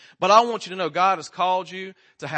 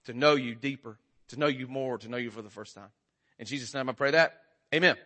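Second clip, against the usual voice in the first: opening prayer; 2 semitones lower than usual. Acted. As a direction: pray sincerely over the congregation.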